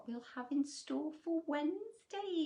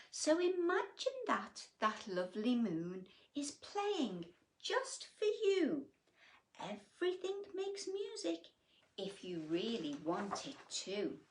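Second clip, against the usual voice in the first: gentle cricket. Acted. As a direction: encourage him kindly. Cricket voiced in story.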